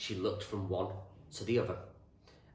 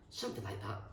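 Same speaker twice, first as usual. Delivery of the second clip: muttering; 7 dB quieter than usual. A narrator's reading. David answering his friend in bed, muttering. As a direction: mutter it under your breath. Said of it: "David muttered".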